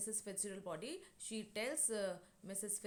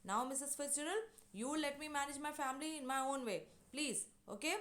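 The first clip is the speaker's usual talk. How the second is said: severe cut-off; 5 semitones higher, faster than usual. Retold or imitated. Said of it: "she cuts her severely and says".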